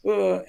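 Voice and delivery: high mock groan of overwhelm; acted frustrated "ugh". Dancer overwhelmed by the teacher's instructions, mock groan. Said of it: "And then I'm like".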